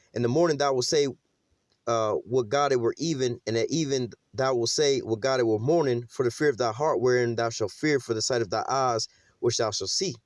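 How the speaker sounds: slow, measured scripture reading. Acted. Preacher reading Deuteronomy to his congregation, slow and measured. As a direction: read the verse out slowly and deliberately.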